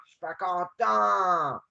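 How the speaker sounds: slow, drawn-out pouting complaint. Pretend. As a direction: pout it out slowly at normal volume. Mock sulking game character.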